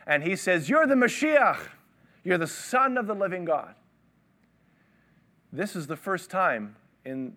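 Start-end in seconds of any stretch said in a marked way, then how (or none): 0.7-3.7 enthusiastic Peter. Retold or imitated. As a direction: blurt it out like the first to answer. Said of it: "Peter is enthusiastically".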